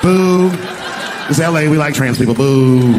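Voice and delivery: boo like an offended audience; mock crowd booing. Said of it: "the crowd was like".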